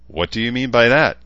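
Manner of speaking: loud, fast, harsh demand; harsh question. A narrator's reading. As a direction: challenge her bluntly and fast. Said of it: "Chansa asked harshly".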